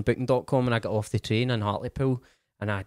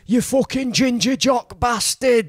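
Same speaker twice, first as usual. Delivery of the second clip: high, slow heckle yelled from the back; drawn-out, high-pitched jeer; heckler's shout; 12 semitones higher, 4 dB louder, slower than usual. Retold or imitated. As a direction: yell it out as an abusive heckler. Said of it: "then the heckling started".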